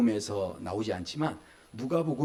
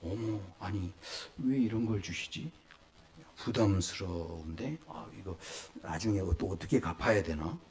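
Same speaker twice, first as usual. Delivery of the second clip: fussy adult; 8 semitones lower, 8 dB quieter than usual. Retold or imitated. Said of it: "어른들은 어떻게 합니까".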